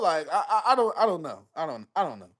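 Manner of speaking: real laugh through the words. Real, not acted. Host backing off his claim with a laugh. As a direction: laugh while backing off the point.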